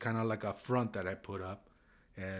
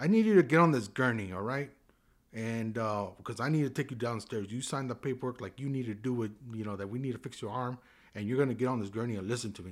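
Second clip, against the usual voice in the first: firm, no-nonsense, stern raised voice; 3 semitones higher, 6 dB louder than usual. Retelling ordering a patient onto a gurney: imitating talking sternly. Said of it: "I talked to her, like, really sternly".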